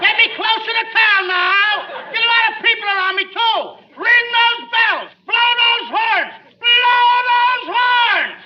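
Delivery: high, frantic comic shouting. Acted. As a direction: shout for noise, stretching the last commands. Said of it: "there's no sense in shouting".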